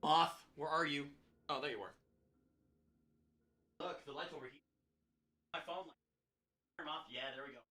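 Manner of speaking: quiet late-night coaxing; soft coaxing. Real, not acted. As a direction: lure the moth gently, barely voiced. Coaxing a moth near night camera.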